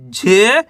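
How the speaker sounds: the single sound झे, stretched and rising; spelling aloud. Shown as a demonstration. Teacher sounding out the next letter, झे drawn out. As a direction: say झे alone, lifting the end. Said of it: "एक बार फिर से देखिए".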